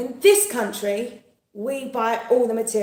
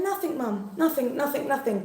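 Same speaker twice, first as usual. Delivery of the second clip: softer, lightly voiced children; children's denial; 4 semitones higher, 4 dB quieter than usual. Children fobbing off Mum in the shop, lightly imitated denial. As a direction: play innocent, a little higher and hushed. Children denying they are laughing.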